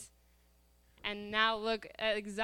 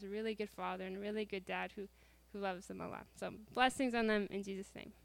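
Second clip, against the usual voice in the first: softer, informal closing prayer; spoken prayer; 3 dB quieter than usual. Real, not acted. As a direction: pray simply and quietly for the listeners.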